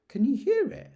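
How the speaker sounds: put-on boy, thrilled at a sound; excited whisper-call. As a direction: hush a friend with excitement. Boy hears something.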